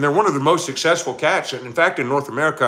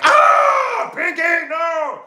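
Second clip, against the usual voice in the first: a much higher, slow cry of "Pinky, no!"; mock panicked shout; 4 dB louder, much slower than usual. Streamer retelling the cat video owner's panicked slow shout. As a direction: yelp it like a man whose leg is under attack. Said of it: "he's like".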